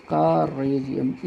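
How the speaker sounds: courageous in slow, separated syllables. Shown as a demonstration. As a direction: draw out courageous piece by piece. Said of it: "ये syllable होता है इस तरह". (courageous को धीरे-धीरे हिस्सों में बोलकर)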